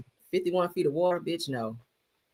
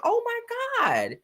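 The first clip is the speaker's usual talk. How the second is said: whisper; 3 dB quieter, much slower than usual. Real, not acted. Stunned whisper after laughing.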